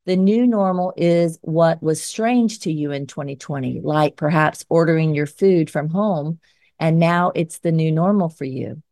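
firm, measured editorial read; scripted commentary read. Acted. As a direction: read it like an op-ed segment. Reads scripted closing commentary.

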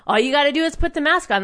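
imitated crowd yelling at the man without a mask; mock yelling. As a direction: rattle it off like a jeering crowd. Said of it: "they were yelling at him".

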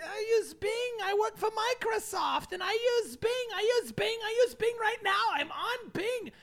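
high whiny client voice. Retold or imitated. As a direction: whine like an insistent client. Mocking Microsoft client.

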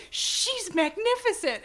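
high, drawn-out admiring quote; She-Ra. Acted. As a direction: say it slowly, in dramatised awe. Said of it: "looks at Queen Angela and says".

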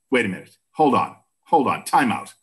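imitated Boston-accented mom cutting in. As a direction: chime in as a Boston mom, lightly voiced. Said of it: "in a Boston accent".

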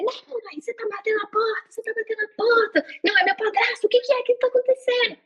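high-pitched mock panic, not full volume; retold panicked screaming. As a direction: reenact crying out to mom in alarm. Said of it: "eu comecei a gritar". (gritaria de pânico encenada, voz aguda)

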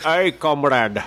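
lightly hammed Scottish accent, playing a Russian; mock Scottish-accented greeting; Sean Connery. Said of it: "hard word to say with a Scottish accent".

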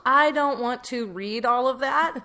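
slow, weary, overwhelmed; fed-up groan. Retold or imitated. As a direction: sound totally fed up with it. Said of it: "I just kinda went".

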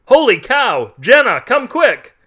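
high, loud, drawn-out holler; excited high-pitched shout for help; urgent calling out. A narrator's reading. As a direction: yell to someone in another room. Carl calls wife urgently.

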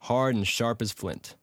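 measured audiobook reading; story narration. A narrator's reading. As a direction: read it like a classic tale, unhurried.

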